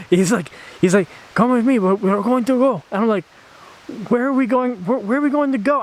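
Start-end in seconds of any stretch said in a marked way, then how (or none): 1.3-2.8 firm insistence. Retold or imitated. Shaman insisting. 4.1-5.8 high confused question. Retold or imitated.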